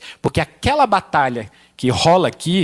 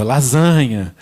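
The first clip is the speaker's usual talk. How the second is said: mock shout; 4 semitones lower, 6 dB louder, much slower than usual. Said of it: "você escuta".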